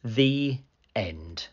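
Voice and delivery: gentle, lively picture-book storytelling; reading to children. A narrator's reading. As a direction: read it like a bedtime story to little ones.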